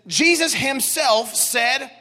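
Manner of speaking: slow, weighty stress on "Jesus himself"; emphasis on himself. Shown as a demonstration. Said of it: "there's an emphasis on the fact".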